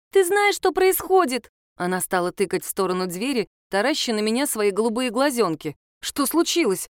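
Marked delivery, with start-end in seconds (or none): 0.1-1.5 put-on high, slow, wide-eyed child's cry; little girl bursting in with news, high and excited. A narrator's reading. Girl bursting into the study, high excited child voice. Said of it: "с дикими воплями". 6.0-6.9 frightened. A narrator's reading. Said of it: "испуганно вскочила я".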